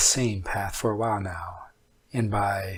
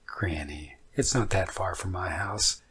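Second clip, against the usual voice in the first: sarcastic. Acted. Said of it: "My voice was sarcastic".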